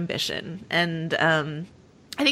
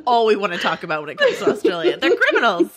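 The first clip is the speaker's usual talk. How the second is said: mock scandalized. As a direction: exclaim it through giggles. Mocks American attitude to Australia, laughing.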